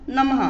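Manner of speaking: नमः ending in an audible "ha"; visarga. Shown as a demonstration. Teacher showing the Sanskrit word, नमः with a final ha. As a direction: let a clear ha follow नमः. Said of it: "हा की ध्वनि निकलेगी बाद में".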